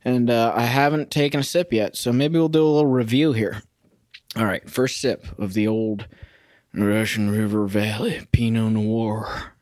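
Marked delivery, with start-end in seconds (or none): 4.4-9.5 slow, lightly affected connoisseur voice; put-on wine-tasting voice. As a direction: draw out the wine's name in a put-on voice. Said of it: "Not sure why I'm doing that voice".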